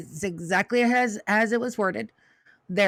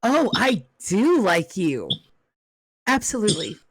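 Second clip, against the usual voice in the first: pleased madam. Acted.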